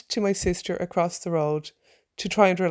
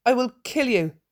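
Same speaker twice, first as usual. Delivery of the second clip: raised, angry shout; 5 semitones higher than usual. Acted. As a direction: threaten the dog at full voice. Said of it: "I shouted".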